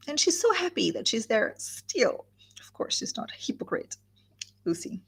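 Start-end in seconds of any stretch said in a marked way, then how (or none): 0.1-2.2 closing "still" stretched and set apart; stress on STILL. Shown as a demonstration. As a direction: make a point of the final "still". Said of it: "with a strong emphasis on the word still".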